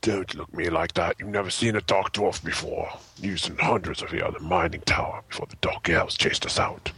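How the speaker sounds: a hint of an old grumpy man; low, put-on dwarf grumble. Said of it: "Old grumpy men".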